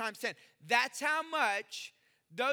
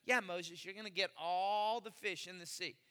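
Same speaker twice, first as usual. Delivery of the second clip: lower, dry mock agreement; a hint of God's sarcastic answer; God answering Moses with dry sarcasm; sarcastic reply; 5 semitones lower, 3 dB quieter than usual. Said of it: "So he's being sarcastic".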